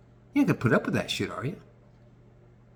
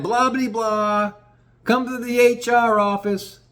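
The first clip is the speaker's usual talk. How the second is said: mock intercom page; 8 semitones higher, slower than usual. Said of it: "I hear on the intercom".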